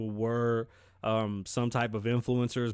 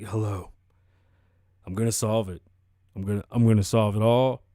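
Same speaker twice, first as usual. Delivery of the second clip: blunt and dry; 3 semitones lower, 6 dB louder than usual. Retold or imitated. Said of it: "He's just so blunt and dry".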